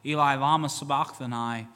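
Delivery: Jesus crying out forsaken on the cross; loud cry. Acted. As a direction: cry out in abandonment. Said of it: "Jesus cried with a loud voice".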